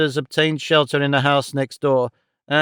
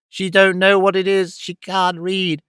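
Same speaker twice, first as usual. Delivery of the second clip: mild mock shriek, pitched up; 5 semitones higher than usual. A narrator's reading. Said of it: "shrieked Greed".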